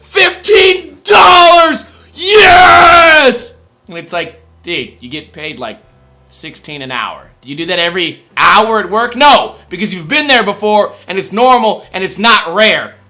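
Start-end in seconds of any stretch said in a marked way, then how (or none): 0.1-3.5 mock very high ecstatic shriek, stretched yes. Imitating a girlfriend winning fifteen dollars at slots: imitating overexcited girlfriend. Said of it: "She starts thanking Jesus".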